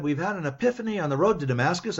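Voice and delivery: mock-solemn confession voiced with light sarcasm; sarcastic. Sarcastically voicing Russia and China's imagined conversion, mock-solemn. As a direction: say it as a sneering parody of a conversion. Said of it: "I'm being very sarcastic".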